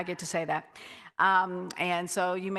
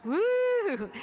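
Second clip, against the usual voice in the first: high woo of celebration; cheering whoop; 12 semitones higher than usual. Real, not acted. Pastor cheering the Pride parade, high whoop. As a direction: cheer them on.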